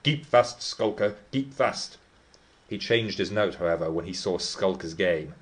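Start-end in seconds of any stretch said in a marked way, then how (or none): 0.0-2.0 a servant yelling to hold the dog; shouting servant. A narrator's reading.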